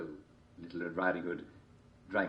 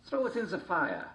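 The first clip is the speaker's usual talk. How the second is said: high wolf voice; 11 semitones higher than usual. A narrator's reading.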